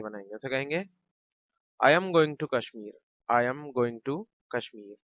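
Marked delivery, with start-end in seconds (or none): 1.8-5.0 slow model sentence. Shown as a demonstration. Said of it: "teacher models English sentence".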